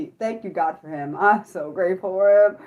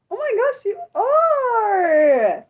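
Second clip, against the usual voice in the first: high-pitched, delighted squeal; excited; 13 semitones higher, 3 dB louder, much slower than usual. Real, not acted. Streamer learning viewer is near her friend, excited squeal. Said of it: "So I just got excited".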